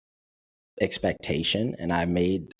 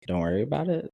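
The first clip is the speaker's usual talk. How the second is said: Don't worry about it? rising in disbelief on it; incredulous echo; 6 semitones higher, faster than usual. Retold or imitated. Echoing Martha's reply back in disbelief. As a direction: throw her words back as a question.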